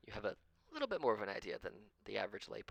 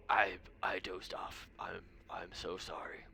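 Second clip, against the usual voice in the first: put-on slow, breathless whisper of a sleepy old wizard; whispered apology. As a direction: whisper it, embarrassed at dozing off. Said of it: "She's like".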